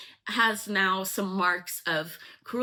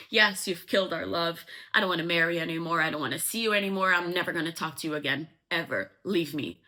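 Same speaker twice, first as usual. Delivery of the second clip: fast acted tirade; angry rejection, retold; 3 dB louder, faster than usual. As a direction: rattle off a mock breakup rant.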